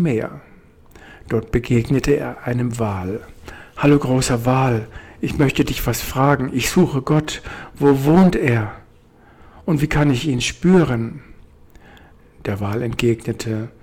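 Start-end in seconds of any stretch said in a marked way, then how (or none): 3.8-11.2 a small bird asking politely and keenly; curious little bird. Acted. Bird asks the whale.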